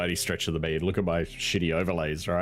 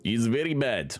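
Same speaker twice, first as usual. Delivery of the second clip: lightly put-on Russian accent; 4 semitones higher than usual. Streamer voicing his furrowed-unibrow character, Russian accent. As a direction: slip into a mock Russian accent. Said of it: "gave him a Russian accent".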